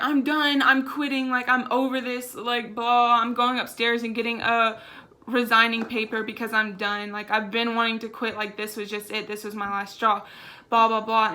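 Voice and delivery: replaying the outburst at the store, voice up and heated; retold yelling. To her manager, retelling her angry quitting rant.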